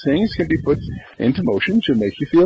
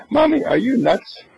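put-on incredulous child; 10 semitones higher than usual.

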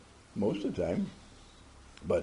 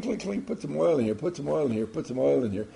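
car voice; 3 semitones higher, faster than usual. Acted. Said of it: "It's beating its drum and saying".

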